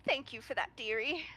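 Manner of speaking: put-on old lady. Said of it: "It's like".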